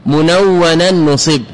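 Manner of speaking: slow, drawn-out chanting of the verse line; slow recitation of the Alfiyya verse. Shown as a demonstration. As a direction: recite the poem line slowly, stretching منونا. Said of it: "لأنه قال".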